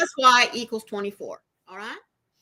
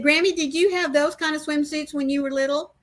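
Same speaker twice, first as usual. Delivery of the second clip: grandson's question; 6 semitones higher than usual. Retold or imitated.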